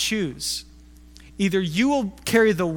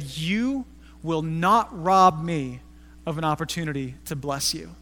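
slow, grave and deliberate; very slow, earnest old man; dead serious; 3 semitones lower than usual. Retold or imitated. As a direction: lay each word down like a solemn vow. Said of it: "with the most serious face".

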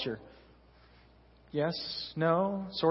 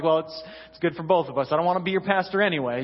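quick, defensive comeback; retold huffy retort; young pastor firing back, mildly huffy; mock defensive; faster than usual. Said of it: "And then I'm getting mad".

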